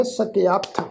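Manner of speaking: ਸਕਿਆਥ as "sakeaath", long "aa"; ਸਕਿਆਥ said carefully as "sa-ke-aath"; shown pronunciation. Shown as a demonstration. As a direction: end ਸਕਿਆਥ on an aspirated "th". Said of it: "ਪਾਠ ਹੈ".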